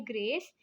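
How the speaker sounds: "ग्रेस" set apart as one syllable; first syllable alone. Shown as a demonstration. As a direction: isolate "ग्रेस" as the first beat. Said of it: "इसमें टू syllables हैं".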